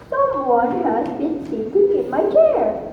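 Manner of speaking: a hint of a growling father bear; lightly growled. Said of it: "roared with a growling voice".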